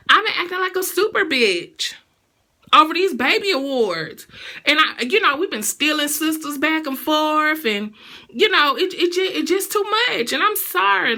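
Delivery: mock emotional speech. Vlogger imitating the singer's emotional award speech, mock tearful. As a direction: ham up a teary award apology. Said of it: "gets emotional on the award and says".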